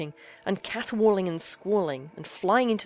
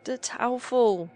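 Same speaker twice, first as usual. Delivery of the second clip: slow, drawn-out high groan; slow dismayed groan; 5 semitones higher, 4 dB louder, much slower than usual. A narrator's reading. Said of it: "groaned they".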